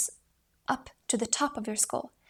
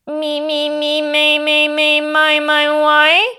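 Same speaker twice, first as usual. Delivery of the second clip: high, loud chain of me ending in a lifted why; rising resonant why; 4 semitones higher, 14 dB louder, slower than usual. Shown as a demonstration. Voice teacher demonstrates resonance rising into why. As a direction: carry it all on one breath up to why. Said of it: "say, "Why?" on the same breath".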